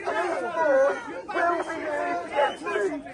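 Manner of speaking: booming police loudspeaker announcement; amplified dispersal order through speakers; blasting sound cannon. Real, not acted.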